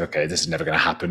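inner thought. Retold or imitated. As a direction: toss it off under the breath, quickly. Retold inner thought, resigned.

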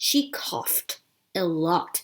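"coughed" with a crisp final T. Shown as a demonstration. Teacher modelling the sentence, "coughed" with -ed said as T. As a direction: model "coughed" ending in FT, not a separate syllable. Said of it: "ed ตรงนี้อ่านเป็นเสียงตัว t".

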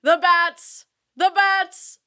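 slow, solemn documentary narration; deep alto narration. Shown as a demonstration. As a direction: intone it slowly and gravely. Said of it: "how would you narrate".

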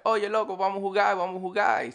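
imitating Dominican players, pitched well up; high-pitched northern Dominican accent, "jugar" as jugai. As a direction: call it like a Dominican on the court. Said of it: "they speak with the I".

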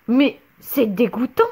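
a hint of a scolding dad; mock annoyed outburst; thundering father. A narrator's reading. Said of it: "tonna son père en s'énervant".

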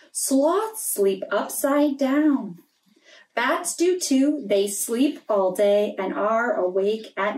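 gentle storybook read-aloud; story reading for children. Acted. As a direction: read it like a bedtime picture book. Reading a picture book aloud.

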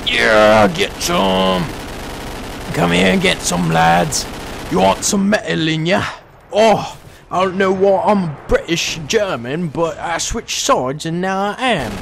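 lightly put-on British-German accent; muddled German accent. Gunner taunting attackers, in a confused German accent. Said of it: "In this German accent I got here".

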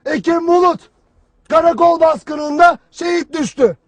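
a hint of a TV anchor reading a death notice; mock mournful news read; sad newsreader voice. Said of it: "hüzünlü bir sesle anlatır".

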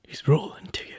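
hushed whisper. Acted. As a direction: breathe it out in a whisper. Voice actor repeats cue in whisper.

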